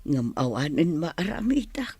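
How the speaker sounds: grieving, hushed whisper; sad whisper. Acted. Mother to her jailed son about his weeping wife, sad whisper. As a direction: whisper it as if holding back tears.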